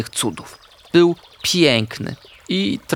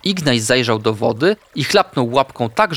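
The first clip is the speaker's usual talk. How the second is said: ordinary delivery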